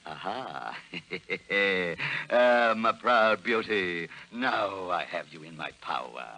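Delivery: melodrama villain. Acted. Porter Hall gloats over Pat, a mild mock villain menace. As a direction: purr the threat like a stage villain.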